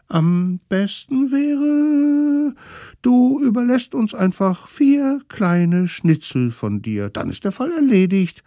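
put-on high cunning kid voice; sly kids' voice. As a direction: propose it like sly little kids. Kids demand schnitzel.

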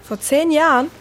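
surprised echo. Acted. Friend hearing he hasn't seen his brother, surprised. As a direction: echo it in disbelief. Astonished repeat of answer.

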